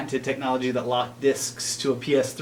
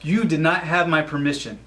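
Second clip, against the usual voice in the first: mock indignation; 5 semitones higher, 3 dB louder than usual. Indignant rant continues.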